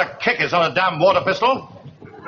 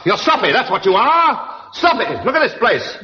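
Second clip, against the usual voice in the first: scornful scold; 3 semitones higher than usual. Acted. Major scolding his sloppy platoon, scornful. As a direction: hurl the insult back at them.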